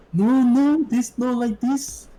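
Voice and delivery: high, slow mock Urdu-speaker English; Urdu speaker's accent. Imitating restaurant coworkers, exaggerated Urdu accent. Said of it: "they sound like this".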